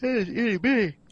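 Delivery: cutesy high voice. Real, not acted.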